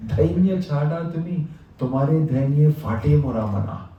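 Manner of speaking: tender plea from God to his devotee; the Lord pleading. Retold or imitated. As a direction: Lord begging devotee to stop. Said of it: "that the Lord told them".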